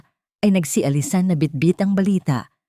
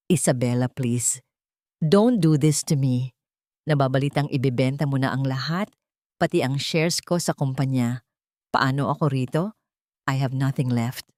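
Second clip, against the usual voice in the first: lower, pleading, defeated man's voice; broken desperate husband; 3 semitones lower than usual. Acted. Jailed husband phoning his wife, begging in a low broken voice. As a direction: beg with no arrogance left. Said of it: "malamig basag at puno ng kawalang pag-asa".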